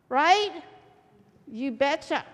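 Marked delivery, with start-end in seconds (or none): 1.5-2.2 put-on playful Minnesota accent; folksy Minnesotan agreement. Preacher joking with the congregation, Minnesotan accent. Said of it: "Let's all go Minnesotan today".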